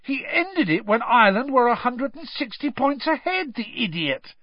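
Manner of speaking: high, indignant cry, dropping at the end; exasperated bellow. A narrator's reading. Ron complaining about the catch while applauding, bellowing. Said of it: "Ron bellowed".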